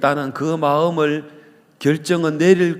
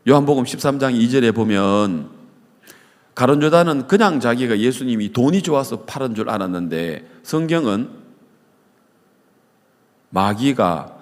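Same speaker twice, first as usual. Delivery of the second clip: usual speaking voice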